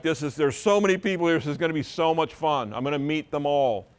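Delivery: mock party excitement; excited partygoer. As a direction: bubble over like an excited guest arriving. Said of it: "you're like".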